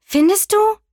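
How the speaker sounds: high, loud little witch question. A narrator's reading. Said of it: "meinte die kleine Hexe". (hohe Stimme der kleinen Hexe)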